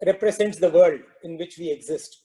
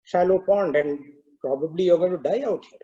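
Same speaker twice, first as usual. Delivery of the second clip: calm cow voice. Acted. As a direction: gently point out his plight. Cow answers the lion calmly.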